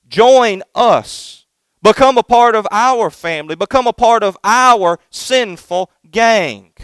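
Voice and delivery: enticing sinners. Acted. Sinners luring the young son away, slow tempting call. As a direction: coax the boy away like a tempting gang. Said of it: "Do you hear it?".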